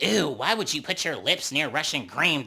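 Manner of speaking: imitating a grossed-out ew; a put-on grossed-out voice; mock disgust. Imitating Rolly, disgusted by Russian Cream. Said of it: "acting like she's just so disgusted".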